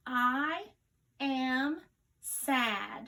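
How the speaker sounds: each word spaced out for dictation; slow dictation sentence. Shown as a demonstration. Teacher dictating a sentence to young students, word by word. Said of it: "your sentence for this one is".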